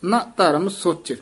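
ਨਾ ਹਮ ਕਰਮ drawn out slowly; slow careful recitation. Shown as a demonstration. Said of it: "ਇਹ ਵੀ ਪਾਠ ਧਿਆਨ ਨਾਲ ਉਚਾਰਨ ਕਰਨਾ ਹੈ". (ਹੌਲੀ, ਧਿਆਨ ਨਾਲ ਪਾਠ)

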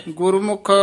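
ਗੁਰਮੁਖ set apart with a clear pause after; pause after word. Shown as a demonstration. Teacher marking the pause for the student: ਗੁਰਮੁਖ, then silence. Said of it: "ਗੁਰਮੁਖ ਪਦ ਤੇ ਵਿਸਰਾਮ ਹੈ".

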